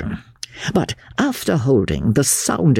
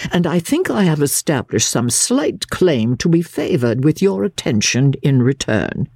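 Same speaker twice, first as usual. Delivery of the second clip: lightly voiced, higher formal appeal; restrained indignant lawyer; 7 semitones higher than usual. Lawyer asking the invalid for attention, mildly indignant. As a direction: press your claim with contained impatience.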